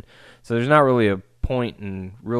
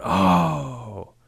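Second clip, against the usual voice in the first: mock crowd gasp; 3 semitones higher than usual. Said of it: "It was like a crowd going".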